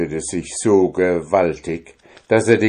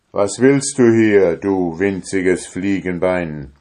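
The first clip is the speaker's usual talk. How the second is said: booming, louder demand; thundering giant voice; 5 dB louder than usual. Acted. Giant confronting the tailor, thundering. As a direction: roar down at the tiny man. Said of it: "mit einer Stimme, als wenn's von allen Seiten donnerte".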